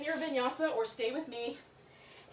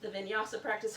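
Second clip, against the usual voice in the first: talking into sleeve; 3 dB louder than usual. Real, not acted. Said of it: "talking into my shirt here".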